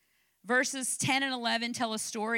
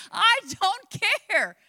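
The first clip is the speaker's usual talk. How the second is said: stern trainer; 9 semitones higher, 9 dB louder, much slower than usual. Retold or imitated. Retold trainer brushing her off.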